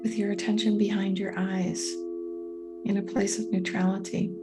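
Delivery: calm guiding voice with long, spacious pauses; guided meditation. Real, not acted. Coach guiding listeners through a meditation on patience, calm and unhurried. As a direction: lead them gently into stillness, leaving room to breathe.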